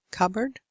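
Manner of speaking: "cupboard" with no P sound at all; silent P. Shown as a demonstration. Teacher repeating the word for learners, "cupboard" with silent P. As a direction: model "cupboard" as cub-erd. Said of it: "You don't pronounce the P".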